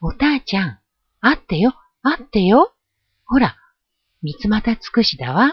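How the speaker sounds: happy, excited, joyful shout of delight. Narrator reads a girl calling to her mother about what she found: joyful shout. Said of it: "嬉しそうに叫びました".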